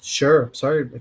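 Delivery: yawning through the word. Real, not acted. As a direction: say it mid-yawn.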